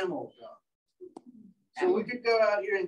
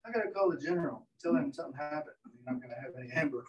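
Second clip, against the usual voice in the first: panicked inner thought; 5 semitones lower, 5 dB quieter, faster than usual. Retold or imitated. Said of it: "he's thinking".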